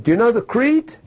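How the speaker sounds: high, brusque demanding question; gruff German. Retold or imitated. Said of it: "he was a gruff, big, you know, German".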